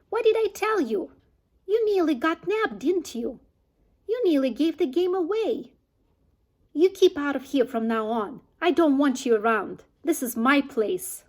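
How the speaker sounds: a high, loud, scolding rat voice; shrieking rat. Acted. Rat on his shelf shrieking at Mister Fox, loud and scolding. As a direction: scold the foxes like a furious little landlord.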